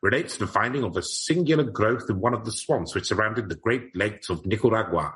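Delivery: put-on old-time newspaper reader with lilting, theatrical phrasing; eighteen eighty-nine voice. Host reading an 1889 article to his co-host, in a period voice. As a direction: read it like a Victorian report, swooping on the big words. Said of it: "I'll read it in eighteen eighty-nine voice".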